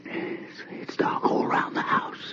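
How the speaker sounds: hushed, breathy whisper of dread; tense whisper in the dark. Acted. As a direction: whisper it as if someone might hear. Tense retelling of a night scene.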